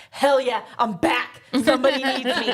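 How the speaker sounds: overjoyed to be needed again, laughing into it; mock excited. Recapping bored Jack finally getting a call for help, gleefully excited. Bored toy maker gets called.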